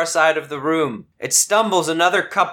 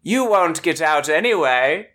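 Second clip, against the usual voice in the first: echoing villain voice; 6 semitones higher than usual. Acted. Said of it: "you hear echo out into the room".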